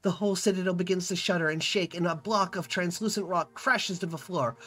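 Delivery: storyteller reading the scene aloud; story narration. A narrator's reading. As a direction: narrate the adventure to the viewers. Reads game narration.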